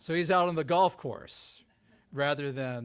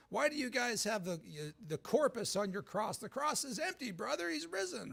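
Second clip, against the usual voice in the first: mock evangelical preacher; 8 semitones higher, 4 dB quieter than usual. Mocks evangelical preacher objection.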